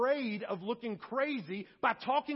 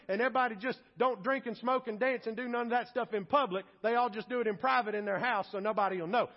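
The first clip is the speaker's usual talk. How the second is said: mock uppity; faster than usual. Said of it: "we did not get together and say".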